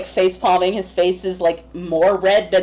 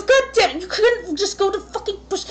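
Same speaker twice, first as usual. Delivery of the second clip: laughing exasperation; 10 semitones higher than usual. Acted. Theo shocked, covering his eyes.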